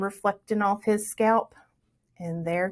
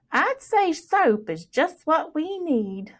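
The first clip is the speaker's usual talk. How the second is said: mama's voice; 7 semitones higher, slower than usual. A narrator's reading. Mama looking Plug over.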